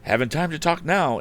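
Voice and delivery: high, loud and hurried; rushed. A narrator's reading. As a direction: brush her off on the run. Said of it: "rushing from the house".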